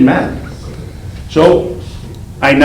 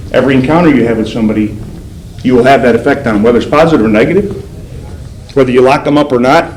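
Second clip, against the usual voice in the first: earnest lesson; faster than usual. Real, not acted. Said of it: "the lesson he draws for listeners".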